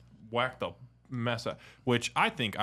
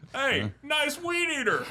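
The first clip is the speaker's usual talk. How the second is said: laughing; 4 dB louder than usual. Real, not acted. Mocking friend's engine noise.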